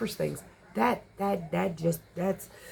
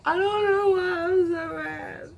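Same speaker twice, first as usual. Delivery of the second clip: slow, much higher whiny wail with a teary break; mock crying; 9 semitones higher, slower than usual. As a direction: play your own overwrought self, half-sobbing. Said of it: "just still be like".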